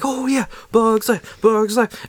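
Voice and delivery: high, slow gleeful chant; sing-song the name like an eager child; high chanting kid; excited kid. Retold or imitated. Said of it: "And I'm all excited".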